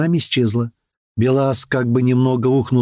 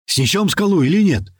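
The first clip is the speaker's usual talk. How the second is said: higher-pitched worried question; a touch of fear, voice raised; frightened; 6 semitones higher than usual. A narrator's reading. Crewman asking if they will smash the rock, frightened. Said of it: "испуганно спросил Слива".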